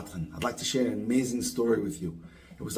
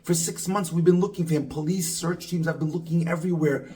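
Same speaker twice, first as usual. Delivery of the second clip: higher, mock-shocked wife's voice; a wife hearing her missing husband is found, pitched up in shock; retold shocked cry; 4 semitones higher than usual. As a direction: voice the wife's shock, lifted but not screamed. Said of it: "She started screaming in shock".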